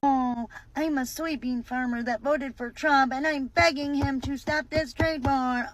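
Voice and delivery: lightly voiced mock farmer, begging; mocking soybean farmer. Comedian mocking a soybean farmer, mild mock plea. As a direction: mimic a pleading farmer with a sneer. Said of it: "you're like a tenth generation soybean farmer".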